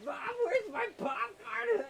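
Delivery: high drawn-out call to another room; yelling across the room. Pretend. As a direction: shout for mom from far off. Calling mom for popcorn.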